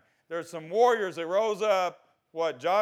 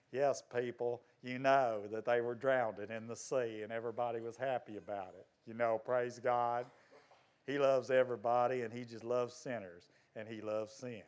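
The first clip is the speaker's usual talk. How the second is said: low, soft, soothing mock sermon; mock gentle preaching; 6 semitones lower, 7 dB quieter than usual. Preacher voicing an all-accepting message he rejects, mock gentle. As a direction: lull them quietly, setting up a rebuttal.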